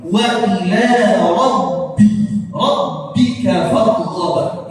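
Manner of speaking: "rabbika" slowly, with voiced double b; measured reading, holding the b in "rabbika"; correct recitation. Shown as a demonstration. Teacher sums up the rule for students, careful "rabbika" with held b. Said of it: "Ya, seperti itu".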